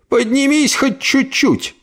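high, slow pleading push; straining command. Acted. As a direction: urge it up slowly. Aunt forcing body up.

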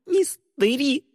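high, sobbing cry of the name; sobbing from the blow; sob in pain. Acted. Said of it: "всхлипнула Ли от боли".

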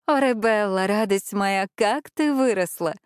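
delighted, warm exclamation; joyful exclaim. Acted. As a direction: greet a beloved little girl with delight. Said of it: "воскликнула Аделина Мирелла".

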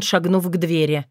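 ordinary delivery, nothing marked

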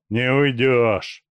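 slow, hissed warning; hissed threat. A narrator's reading. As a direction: hiss it out slowly through the teeth. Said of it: "прошипел Густерин". (медленно, с шипением)

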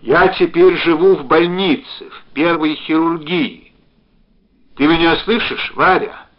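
high, loud, deliberate delivery; calling out. A narrator's reading. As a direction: shout so the far end can hear. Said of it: "крикнул он".

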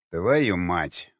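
низкое усталое ругательство; выругайся от бессилия, пониже; устало. Acted. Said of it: "устало проговорил варяг". (измученно, с досадой)

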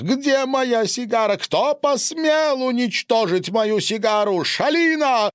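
high, loud wailing howl; wailing yell. A narrator's reading. Boris howls about his destroyed cigar in a high wail. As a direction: wail it, voice climbing highest on Шалина. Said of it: "завопил Борис".

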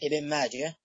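"ماجه" ending in a soft h, with no t sound; final ha, no ta. Shown as a demonstration. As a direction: say "ماجه" with an open -ah ending, never -at. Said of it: "تنطق هكذا على الصحيح بدون التاء".

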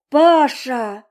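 loud despairing call to her husband; mother crying out to her husband; desperate cry. A narrator's reading. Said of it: "закричала мама отчаянно".

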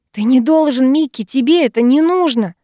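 high, loud, voice strained to breaking; straining yell. A narrator's reading. Heroine yelling at Mikki to stop him, strained and high. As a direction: yell it till the voice tears. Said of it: "надрывая голос, ору я".

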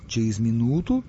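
lightly questioning, rising; puzzled double-check. Acted. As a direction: ask back as if unsure. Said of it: "переспросил нубиец". (растерянно переспрашивая)

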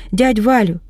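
first call, moderate. Acted. Polya rouses the fainted uncle, first moderate call. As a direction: call his name to wake him. Nurse rousing fainted man.

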